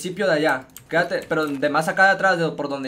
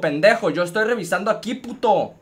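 louder angry shout at a teammate; angry yell; 4 semitones higher, 5 dB louder than usual. Real, not acted. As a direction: yell at the one who shot you. Yelling at teammate who shot him.

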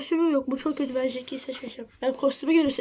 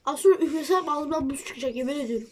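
talking around a mouthful of ice; 2 semitones lower than usual. Real, not acted. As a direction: speak with ice in your mouth. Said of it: "Abi, çiğneyeceksen çiğne hadi".

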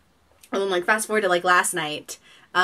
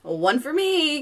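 gloating win; 8 semitones higher, much slower than usual. Retold or imitated. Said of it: "I was like".

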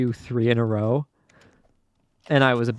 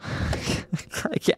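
despairing whimper; 6 dB quieter than usual. Real, not acted. Frustrated player failing obby jump.

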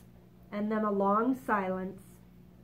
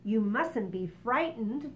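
kindly; slower than usual. Acted. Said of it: "the ladybug said kindly".

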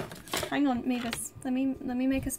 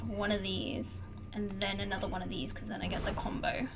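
soft unvoiced whisper to herself; 6 semitones lower, 9 dB quieter than usual. Real, not acted. Streamer whispers her combo plan to herself. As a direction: whisper the combo plan under your breath.

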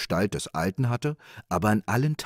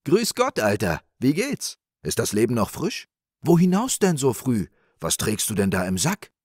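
raised, hearty hailing; friendly call; 5 semitones higher, 5 dB louder than usual. Acted. Rich man greeting the old wanderer, friendly call. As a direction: hail him cheerily from horseback. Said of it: "Gar freundlich rief er vom Pferde".

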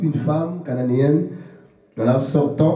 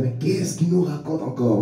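imagined baffled listener; 4 dB quieter than usual. Acted. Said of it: "Vous allez dire".

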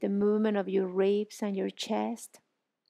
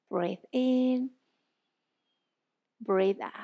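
guided breathing; much slower than usual. Shown as a demonstration. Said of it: "with that sensation of fog in a glass".

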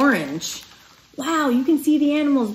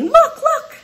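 high, laughing excited calls; excited calling; 5 dB louder than usual. Acted. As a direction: call eagerly with a laugh. Sylvie calling birds.

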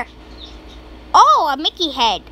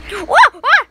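startled whoa; 4 semitones higher, 4 dB louder than usual. Real, not acted. Startled by a game scare.

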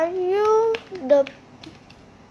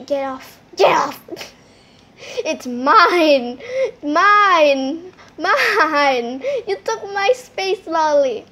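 pretend yelling; 3 dB louder, slower than usual. Kids fighting over seat.

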